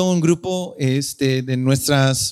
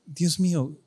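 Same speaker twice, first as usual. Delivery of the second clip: quiet awe; 2 semitones higher than usual. Retold or imitated. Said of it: "me sentí".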